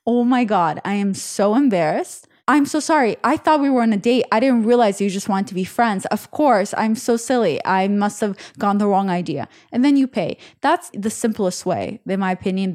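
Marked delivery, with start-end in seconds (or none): 0.1-9.5 feigned embarrassment after a little laugh; mock embarrassed. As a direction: play at being sheepishly apologetic. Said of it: "you laugh and you say".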